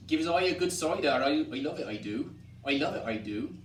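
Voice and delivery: West Country farmer asking for cider; rustic West Country accent, tag ending leaned on; rural West Country dialect. Shown as a demonstration.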